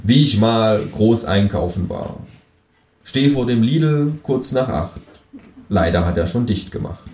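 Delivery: measured comic verse recital; declaiming a poem. A narrator's reading. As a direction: recite the doggerel deliberately, line by line. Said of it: "Ich deklamiere".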